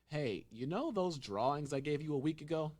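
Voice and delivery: tossing off a big redo like it's nothing; imitating the director. Podcaster mimics the director dumping extra work. Director voiced in retold story.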